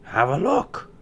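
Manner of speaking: put-on old crone voice. Disguised queen offers lace.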